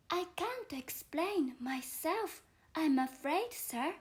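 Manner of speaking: put-on a polite little girl apologising, slow; young Alice explaining herself to the caterpillar, lightly voiced.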